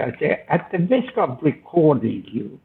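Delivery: lightly put-on English accent on "at the risk"; teasing the English interviewer in his own accent; a touch of posh English accent; mock English accent. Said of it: "Did I approximate a local accent".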